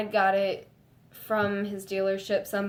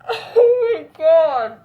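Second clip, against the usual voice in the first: much higher and louder, laughing squeal; can't stay calm; 8 semitones higher, 11 dB louder, much slower than usual. Real, not acted. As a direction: lose it with laughing excitement. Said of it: "Let's see if I can stay calm".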